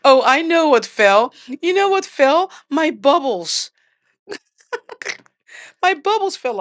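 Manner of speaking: high, excited exclamation; suddenly thrilled, calling it out. Real, not acted.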